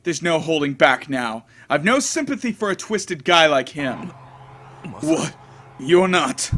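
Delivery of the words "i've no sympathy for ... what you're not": put-on angry girl voice. Girl master insults servant.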